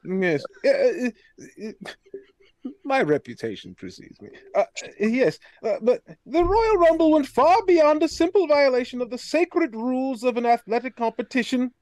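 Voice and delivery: pompous aristocrat, lightly voiced; a self-important noble introducing himself; posh noble character. Plays a stuffy noble character.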